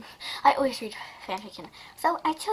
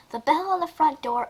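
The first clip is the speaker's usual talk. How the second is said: higher-pitched story reading; 5 semitones higher than usual. Shown as a demonstration. Starting to read the story aloud, in a higher reading voice. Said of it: "this is not a reading".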